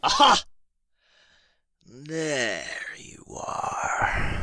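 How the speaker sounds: loud, high gotcha cry; triumphant shout. Acted. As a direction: pounce on the discovery. Dragon finds the intruder.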